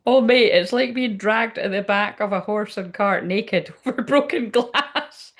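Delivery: reading through giggles; can't get the line out for laughing; cracking up mid-quote. Real, not acted.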